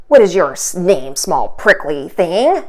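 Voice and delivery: lightly voiced low rhino, unkind. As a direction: sneer down at the little porcupine. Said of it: "asked the rhinoceros unkindly".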